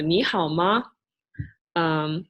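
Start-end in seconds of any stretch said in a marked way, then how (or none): 0.0-0.8 "你好吗" with clear tones, "吗" added lightly; Mandarin question. Shown as a demonstration. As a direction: model "你好吗" as a complete question. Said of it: "adds a question".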